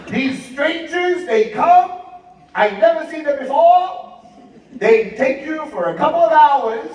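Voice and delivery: high, emphatic, imitated motherly interrogation; suspicious mother. Mother confronting son about strangers, high suspicious voice.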